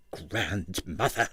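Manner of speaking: slow, soft, scornful "Grandmother"; a scornful word floating through the door. A narrator's reading. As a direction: drawl it with contempt. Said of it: "a scornful".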